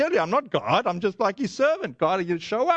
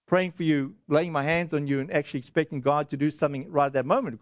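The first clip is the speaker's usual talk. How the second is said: timid excuse; 4 semitones lower than usual. Retold or imitated. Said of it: "the wrong thing to do would be to say".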